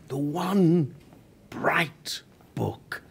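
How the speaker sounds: hushed whisper of a cherished memory. Acted. Man whispers about the bright book of his childhood. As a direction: breathe the words as if holding something precious. Recalling childhood comfort story.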